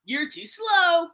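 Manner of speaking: slow, cocky hedgehog taunt; Sonic impression. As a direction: drawl it out like Sonic. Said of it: "definitive voice of Sonic".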